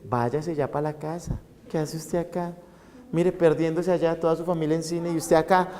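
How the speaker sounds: the id whispering to the student, softly coaxing; tempting id voice. Acted. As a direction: coax them to sneak home, hushed. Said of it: "está su ello diciéndoles".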